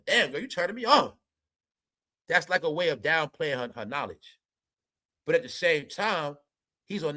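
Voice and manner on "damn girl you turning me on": mock flirting. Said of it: "that was the way of, like, trying to play her".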